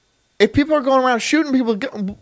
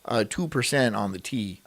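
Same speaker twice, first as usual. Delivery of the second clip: low, hesitant bureaucrat voice, fading softer; lightly voiced timid official; stuffy suit guy; 10 semitones lower, 3 dB quieter, slower than usual. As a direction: mumble out a lame tax demand. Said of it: "I don't know why he sounds like that".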